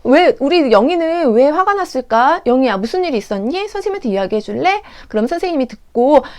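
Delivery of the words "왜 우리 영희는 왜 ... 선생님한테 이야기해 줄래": gently inquiring teacher. Acted. Teacher asking an angry child what happened, coaxing. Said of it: "혼내시기 이전에 왜 화가 났는지를 물어봐".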